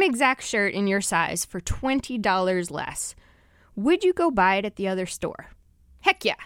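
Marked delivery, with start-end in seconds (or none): 6.0-6.3 emphatic yes. Acted. Emphatic answer to own question.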